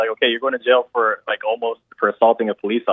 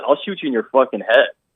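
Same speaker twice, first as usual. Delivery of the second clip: mock-angry, put-on angry delivery. Repeating what an angry man said as an argument escalated: imitating an angry threat. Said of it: "He got so angry".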